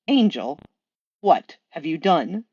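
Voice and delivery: slow, appalled demon; dismayed and slow; Crowley's voice. Acted. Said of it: "I will do voices".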